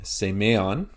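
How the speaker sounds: "semeon" said say-MAY-on; middle-syllable stress. Shown as a demonstration.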